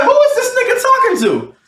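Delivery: high-pitched, indignant retold question; getting mad. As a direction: act out mad disbelief, voice way up. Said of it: "I started getting mad".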